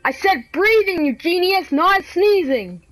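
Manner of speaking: mad scolding. Real, not acted. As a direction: scold them word by word, stretching the endings. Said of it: "Gosh, I'm mad".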